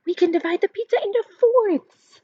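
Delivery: put-on high, cheerful kid's answer; bright girl. A narrator's reading. Lexi answers Seth, lightly voiced girl. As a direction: say it like a clever kid. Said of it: "Lexi says".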